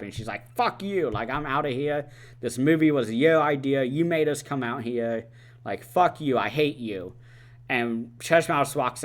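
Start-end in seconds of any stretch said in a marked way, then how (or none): 0.6-7.1 retold angry rant, pitched up at the start; higher-pitched opening jab, mock fed-up; mock angry outburst. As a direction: act out a character lashing out, mildly heated. Retold quarrel between film characters.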